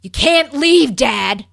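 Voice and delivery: a hammed-up yell, pleading; mock yelling son. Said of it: "Frankie's like".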